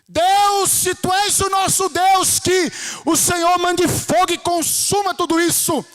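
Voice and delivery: loud, high, fervent plea; crying out. Retold or imitated. Elias praying for God to send fire, crying out. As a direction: call on God at full voice. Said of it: "e aí ele clama".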